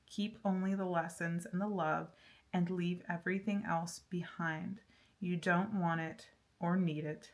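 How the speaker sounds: soothing oracle card reading; card message read. Acted. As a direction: read the message gently to the viewer, like a blessing. Reads the card's message aloud.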